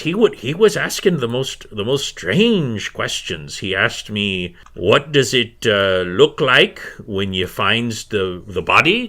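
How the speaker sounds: lightly voiced, lilting crone; a hint of puzzled old-woman voice; old healer woman. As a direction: recall it haltingly as an old village woman. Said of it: "And she says".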